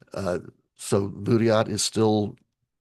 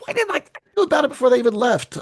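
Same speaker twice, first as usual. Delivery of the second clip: self-reproach; 4 dB louder, faster than usual. Retold or imitated. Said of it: "And I was like".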